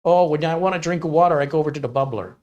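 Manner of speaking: mock Upper Midwest accent. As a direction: play a chatty Wisconsin local with the accent. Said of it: "within a certain region speak a certain way".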